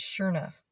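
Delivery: "sure enough" said shore-nuff, stress on sure; Texas sure enough. Shown as a demonstration. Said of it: "But in Texas".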